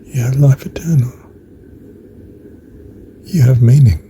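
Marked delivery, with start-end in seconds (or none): 0.0-1.1 breathy whisper on life eternal; hushed. Real, not acted. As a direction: let it fall away to a whisper. Musing aloud on knowing God.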